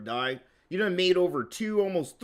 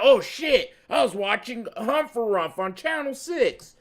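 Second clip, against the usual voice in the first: acted-out alarm, higher pitched; mock sudden realization; 4 semitones higher than usual. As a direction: blurt it out like a viewer who just remembered. Acting out a channel surfer's realization.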